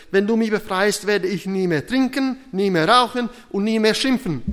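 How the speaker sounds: loud, high acted begging, building through each promise; desperate shout. Trapped man vows everything to God as train nears, desperate. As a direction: pile up the vows at full voice. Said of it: "schrie er wei-, verzweifelt".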